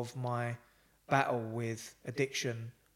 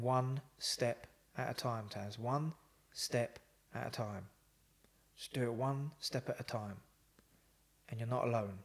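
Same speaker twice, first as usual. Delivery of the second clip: slow gentle encouragement; 4 dB quieter than usual. Retold or imitated. Remembered encouragement in his head.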